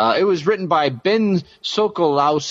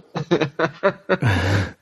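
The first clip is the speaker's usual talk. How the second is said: put-on laugh in Russian accent; 4 semitones higher than usual. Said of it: "I can't laugh in a Russian accent".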